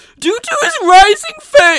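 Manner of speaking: very high, loud, shrill, choked cartoon squawk. Reading a passage aloud in a voice done earlier, in a strangled put-on voice. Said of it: "sounded more like Stewie Griffin swallowed a squirrel".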